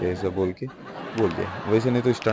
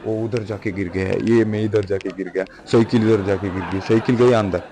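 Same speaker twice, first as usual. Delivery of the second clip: excited crash rundown; 6 dB louder than usual. Real, not acted. Listing where everyone fell.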